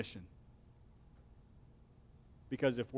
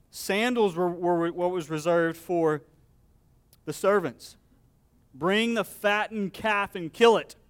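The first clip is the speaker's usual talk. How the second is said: joyful father; 3 semitones higher, 6 dB louder than usual. Acted. Father joyfully orders the feast.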